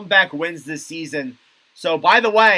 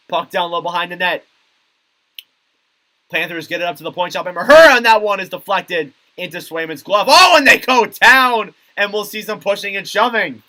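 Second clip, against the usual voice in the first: quick hockey call that jumps louder at the action; live play-by-play; 3 semitones higher, 7 dB louder than usual. Real, not acted. Commentator calling a shot and a scuffle, live play-by-play. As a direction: race through the pass, then punch the hit.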